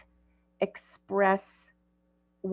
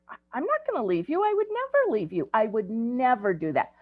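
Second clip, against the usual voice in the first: reassuring; 5 semitones higher, faster than usual. Retold or imitated. Grandparent soothing crying child.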